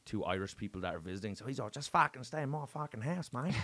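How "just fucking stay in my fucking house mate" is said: higher, broad Aussie impression; put-on Australian accent. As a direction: imitate a sweary Australian host. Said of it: "I'm doing this Australian accent".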